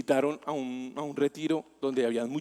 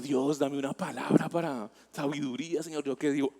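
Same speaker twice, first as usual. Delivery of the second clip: quiet inner prayer; 2 semitones lower, 5 dB quieter than usual. Retold or imitated. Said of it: "silent prayer for wisdom".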